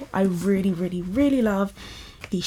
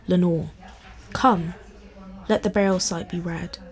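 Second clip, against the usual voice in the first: measured, solemn poetry recital; poem reading. Acted. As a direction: read it like a dark Victorian poem. Reads a Poe poem aloud.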